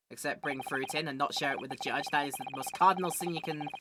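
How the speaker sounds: normal talking voice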